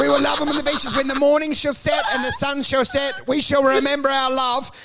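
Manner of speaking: hammed-up lofty declaration, laughing into it; mock grand vow. Mocking a couple's Facebook anniversary post, hammed-up orator. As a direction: recite it like a pompous memorial speech. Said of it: "mock vow continues".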